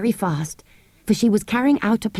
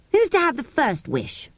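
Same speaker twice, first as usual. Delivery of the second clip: cautiously; 8 semitones higher than usual. A narrator's reading. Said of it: "said Robert cautiously".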